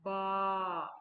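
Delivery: bleating sheep sound; sheep baa. Shown as a demonstration. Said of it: "Sheep says".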